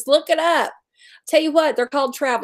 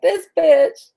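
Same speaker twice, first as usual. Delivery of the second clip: imitating the angry caller; 4 semitones higher than usual. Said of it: "She's like".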